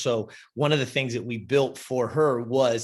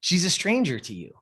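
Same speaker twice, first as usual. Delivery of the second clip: raised, higher voice calling her out; retold scolding; 4 semitones higher than usual. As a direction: call her out, raised and sharp. Scolding client in retold talk.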